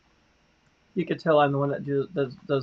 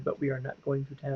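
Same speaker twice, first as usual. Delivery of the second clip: robot voice; 9 dB quieter, faster than usual. Retold or imitated. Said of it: "Why are you talking like a robot at times?".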